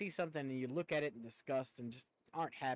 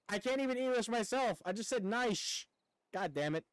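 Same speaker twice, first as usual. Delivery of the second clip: higher and louder, laughing at himself; frustrated self-mocking outburst, pitched up; exasperated; 9 semitones higher, 5 dB louder than usual. Real, not acted. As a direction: repeat the slip with exasperated amusement.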